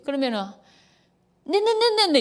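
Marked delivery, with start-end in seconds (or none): 1.4-2.2 higher rapid sarcastic yeses. Retold or imitated. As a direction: brush off the nagging spouse. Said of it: "이런다 생각해보세요".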